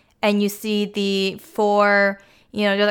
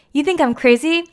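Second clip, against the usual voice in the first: higher-pitched mock indignation; imitated affronted question; offended disbelief; 6 semitones higher than usual. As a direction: act out taking it the wrong way. Retold Anna taking offence.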